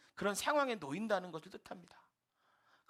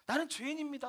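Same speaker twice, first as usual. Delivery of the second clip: higher, pleading tremble on 나는 죄인입니다; retold trembling cry; 7 semitones higher than usual. Teacher praying before the missionary, higher trembling tearful cry. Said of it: "막 몸을 떨면서".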